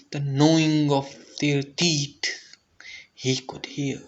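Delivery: whispered, hushed and eerie. A narrator's reading. Narrator hushing as the bishop hears the rats. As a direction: breathe the words like a secret dread.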